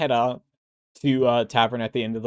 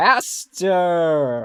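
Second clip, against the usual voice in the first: put-on tipsy, slightly slurred, one word drawn out; 4 semitones higher than usual. Voicing a character calling a friend over: drunk slurred speech. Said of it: "her words are a little slurred".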